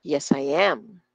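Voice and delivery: low answer, "I" skimmed, AM stressed; "I" almost inaudible. Shown as a demonstration. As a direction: barely voice "I", lean on "am". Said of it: "Hindi natin sila halos nadidinig".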